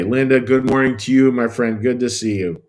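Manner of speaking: upbeat welcome to a viewer; cheery hello. Real, not acted. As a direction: greet a friend cheerfully by name. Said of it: "little cheery hello here".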